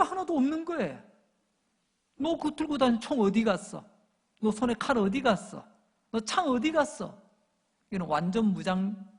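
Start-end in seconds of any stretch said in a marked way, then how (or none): 2.2-7.2 higher-pitched jeering questions; mocking taunt. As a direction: taunt a beaten, disarmed enemy. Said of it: "그 패잔병을 향한 조롱이죠".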